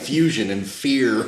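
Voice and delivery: slow, insistent continuation; emphatic listing. Real, not acted. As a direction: keep stacking the items, slowly. Keeps piling up the list.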